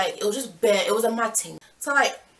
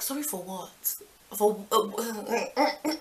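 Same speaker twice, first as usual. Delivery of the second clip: incredulous; 4 dB quieter, much slower than usual. Retold or imitated. Narrator confronts apology.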